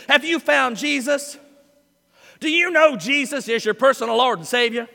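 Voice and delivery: a hint of a pushy preacher, teasing; mocking evangelist. Pastor mimicking evangelists who drive him crazy, mild mockery. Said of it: "People like that".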